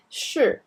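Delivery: 是 said clearly as a model; 是, shi, said carefully on its own; 是 as a careful model word. Shown as a demonstration. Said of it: "is a very important word".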